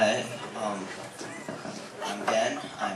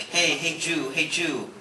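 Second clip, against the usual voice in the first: higher-pitched imitation of people hailing him; mock call-out, pitched up; 6 semitones higher, much slower than usual. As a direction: lightly mimic a friendly street greeting. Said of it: "they'd come up and they'd be like".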